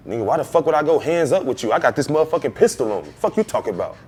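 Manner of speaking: lightly acted tough-guy retort; a touch of mock outrage; mocking imitation. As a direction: mimic him talking big, slightly indignant. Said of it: "That's what you sound like right now".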